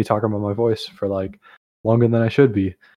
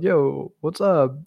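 higher, breezy yo; casual bro greeting; 5 semitones higher, much slower than usual. Retold or imitated. Answering the Discord voice chat with a higher, breezy yo. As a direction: toss it off like a chill guy. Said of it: "And I was like".

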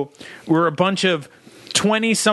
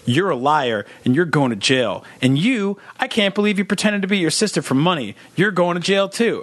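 smug detective. Retold or imitated. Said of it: "she'd be like".

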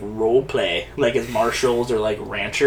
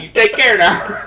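put-on Old West accent; 8 semitones higher, 6 dB louder than usual.

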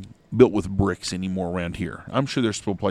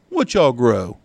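put-on twelve-year-old kid; 2 semitones higher, 5 dB louder, much slower than usual. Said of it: "about twelve years old".

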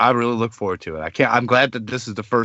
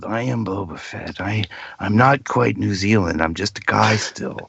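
lightly voiced old cartoon Boba Fett; a hint of the holiday special Boba; vintage cartoon voice. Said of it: "he sounds like holiday special".

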